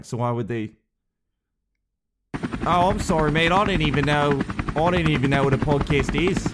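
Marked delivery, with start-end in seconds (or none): 2.7-6.5 British reporter voice. Acted. Nigel apologises.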